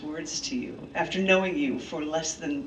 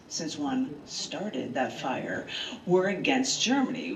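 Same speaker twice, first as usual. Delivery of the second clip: measured storyteller reading of history; earnest essay read to friends; dramatic essay reading; 3 semitones lower than usual. Acted. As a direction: read it like a documentary narrator. Reads her dramatic essay aloud.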